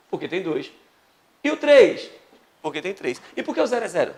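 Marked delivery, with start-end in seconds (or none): 1.4-2.1 loud, high question to the class; rising quiz question. Real, not acted. Teacher quizzing the class, loud and high. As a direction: call it out as a quiz.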